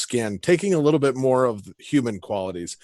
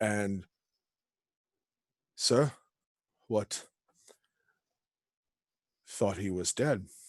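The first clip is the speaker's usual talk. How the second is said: understated, soft, quiet voice; 2 semitones lower, 9 dB quieter than usual. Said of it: "just quiet voice though for how big he is".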